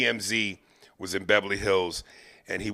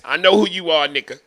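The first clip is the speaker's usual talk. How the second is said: menacing Jay; 6 semitones higher, 6 dB louder than usual. Retold or imitated. Jay's menacing line repeated.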